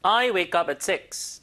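slow, every word stressed, loud; stressed demo. Shown as a demonstration. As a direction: stretch out each word with heavy stress. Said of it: "강세 들어보세요".

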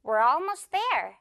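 "we're almost there" linked into one smooth run. Shown as a demonstration. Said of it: "조금 더 빠르게 말하자면".

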